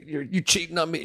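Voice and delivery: mock Italian accusation. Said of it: "She was Italian".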